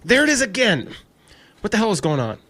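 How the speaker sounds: sudden high, loud alarmed cry; alarmed shout. Acted. Siggy hearing the phantom click again, frightened shout. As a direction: jolt up in fright.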